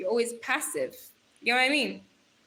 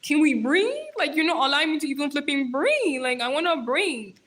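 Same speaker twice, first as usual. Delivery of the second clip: lightly acted exasperated listeners; mock audience complaint; 3 semitones higher, 3 dB louder than usual. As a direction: put on a playful plea from worn-out listeners. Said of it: "y'all are like".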